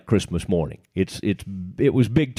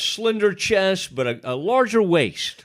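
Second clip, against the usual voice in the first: customer quote; 5 semitones higher than usual. Retold or imitated. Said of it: "You tell them".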